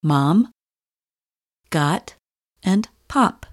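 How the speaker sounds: "mom", "got", "pop" with an open O, lips not rounded; unrounded short O. Shown as a demonstration. Teacher modelling "mom", "got", "pop" for learners, with open O. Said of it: "Try saying this sound in".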